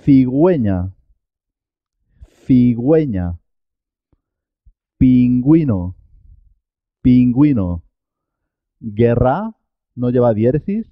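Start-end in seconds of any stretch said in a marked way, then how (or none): 0.0-3.4 "Cigüeña" with the ü clearly heard as gw; sounded U. Shown as a demonstration. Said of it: "Que la U suena". 5.0-7.8 "Pingüino" with the ü clearly heard as gw; sounded U. Shown as a demonstration. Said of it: "Que la U suena".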